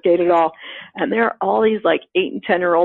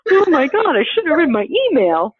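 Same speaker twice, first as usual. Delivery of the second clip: mock panic; 6 semitones higher than usual. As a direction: squeal it like a startled beginner. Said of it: "I'm like".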